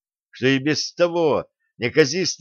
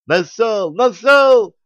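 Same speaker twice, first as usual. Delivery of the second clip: rising to a much higher, louder gleeful shout; pleased laughing shout; 10 semitones higher, 8 dB louder, much slower than usual. A narrator's reading. Craftsman shows off his bricks, laughing gleefully. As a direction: crow it out, laughing with delight. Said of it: "довольно расхохотался в ответ".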